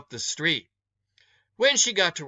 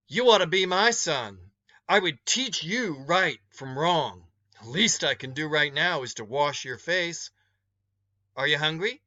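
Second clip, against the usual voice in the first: a hint of a strict but caring woman; stern motherly woman. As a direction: lecture him like a stern mother. Woman lectures the boy.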